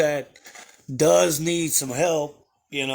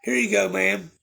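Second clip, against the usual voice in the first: higher, mock-polite ma'am; innocent delivery guy; 5 semitones higher than usual. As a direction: play dumb and sweet as the delivery man. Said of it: "And I'm like".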